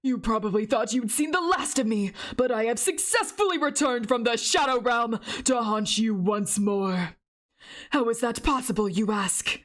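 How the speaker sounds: a hint of a gloating returned villain; villain read. Reading villain dialogue.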